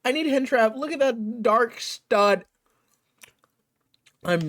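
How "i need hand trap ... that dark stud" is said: imitating an excited fan. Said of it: "someone's gonna be like".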